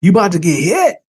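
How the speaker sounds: half-hearted imitation of screaming, rising on HIT; mock-urgent warning at ordinary volume. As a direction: act out an urgent warning without really yelling. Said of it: "if I'm screaming at the top of my voice".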